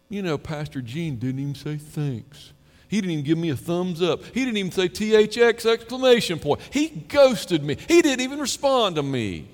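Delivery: high, loud mock grievance; whiny church member. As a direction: imitate a hurt member griping he got no thanks. Imitating a hurt church member.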